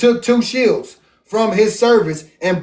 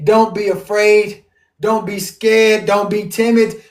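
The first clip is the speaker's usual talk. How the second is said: slow reassurance. Retold or imitated. Voicing God's reassurance, slow.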